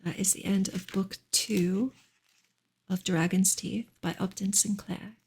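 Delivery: hushed bedtime-style reading of a novel; story narration. Acted. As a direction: read the novel gently, as if to lull a listener. Reads novel aloud on stream.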